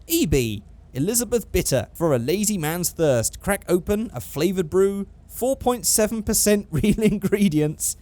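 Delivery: put-on slow, Australian-accented beer advert read. Vlogger reading a joke beer label to viewers, Australian accent. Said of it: "That was my Australian accent".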